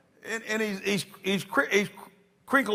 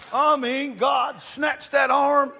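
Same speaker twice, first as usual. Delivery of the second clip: shout; 5 semitones higher, much slower than usual. Real, not acted. Preacher shouting God's miracle.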